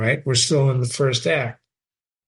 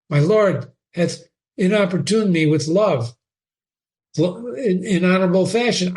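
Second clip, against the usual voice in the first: put-on higher, pleading girl; earnest daughter; 4 semitones higher than usual. Ophelia defending Hamlet to her father, earnest girl.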